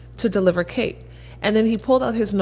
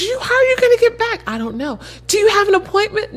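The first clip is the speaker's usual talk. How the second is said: concerned lady; 12 semitones higher than usual. Retold or imitated. Lady worried about her getting back.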